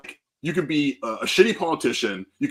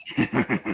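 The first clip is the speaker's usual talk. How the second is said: scary villain laugh; 2 semitones lower, 3 dB quieter than usual. Acted. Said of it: "Stop doing that scary voice".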